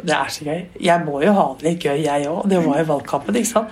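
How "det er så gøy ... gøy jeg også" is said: mild Jonas impression. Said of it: "så sa han".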